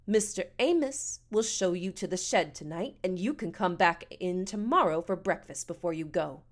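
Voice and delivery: lightly voiced indignant matron; a touch of pompous, measured scolding; haughty, fed-up woman. Missus Amos passes sentence.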